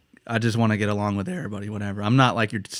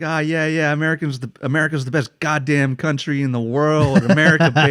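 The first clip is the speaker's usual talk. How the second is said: hammed-up patriotic bragging, slightly raised pitch; boastful American tourist; 3 semitones higher than usual. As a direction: lightly mimic a trolling tourist. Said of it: "he'd go up to people and be like".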